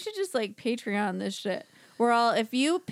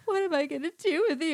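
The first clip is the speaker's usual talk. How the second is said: cheesy soap line; 8 semitones higher than usual. Retold or imitated. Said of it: "It was like".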